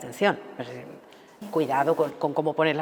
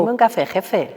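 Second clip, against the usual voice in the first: "Ponme un café, jefe" in a higher, chummy voice; friendly bar order; 3 semitones higher, 4 dB louder, slower than usual. Retold or imitated. Customer joking with the barman, chummy mock order.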